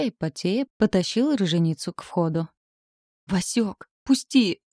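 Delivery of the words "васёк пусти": panicked yell of a frightened husband; mock-panicked shriek; screaming. A narrator's reading. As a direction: cry out in terror to be let go. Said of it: "истошно заорал".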